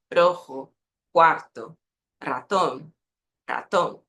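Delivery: Rojo, quarto, ratón with unexaggerated trills. Shown as a demonstration. Teacher showing learners a natural sound, easy R. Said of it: "Vê como é mais natural?".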